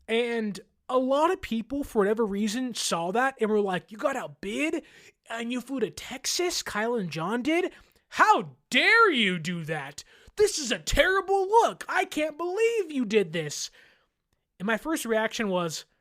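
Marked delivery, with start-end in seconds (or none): 3.9-13.7 hammed-up indignant fans, jumping higher; mock outrage. Imitating fans angry at Kyle and John, with hammed-up outrage. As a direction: sneer at the overreaction.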